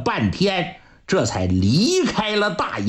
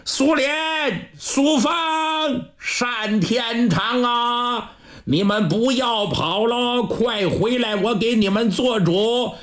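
high, calling after riders in the distance; calling out loud; 5 semitones higher than usual. Acted. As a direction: shout after them to come back, pleading. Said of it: "高声就喊". (高声呼喊，劝他们回来)

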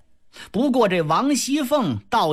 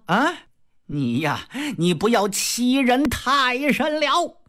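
put-on drunken threat. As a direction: slur the threat at her. Drunk Jia Lian threatens with sword.

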